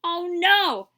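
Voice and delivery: high, loud squeak. Acted. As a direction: squeak it, tiny voice from a big beast. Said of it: "squeaked the rhinoceros".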